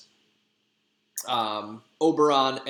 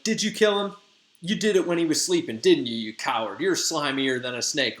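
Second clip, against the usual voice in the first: higher and louder, fast mock interrogation; accusing Hermia; 3 semitones higher, 3 dB louder than usual. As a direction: pin him down like a suspect. Hermia accuses Demetrius of murder.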